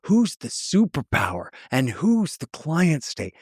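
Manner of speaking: rising, slowed, stunned exasperation; exasperated disbelief. Retold or imitated. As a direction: imitate someone out of breath and stunned, lightly. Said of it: "he was out of breath, exasperated, just stunned".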